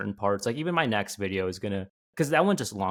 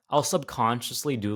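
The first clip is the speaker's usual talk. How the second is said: ordinary talk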